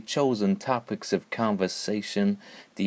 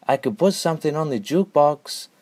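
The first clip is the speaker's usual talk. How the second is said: put-on thick Mongolian accent; 6 semitones higher than usual. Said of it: "said in his thick Mongolian accent".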